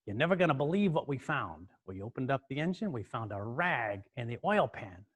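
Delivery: New York mechanic's big reveal, slowing down; New York accent. Retold or imitated. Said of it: "this kinda New York accent".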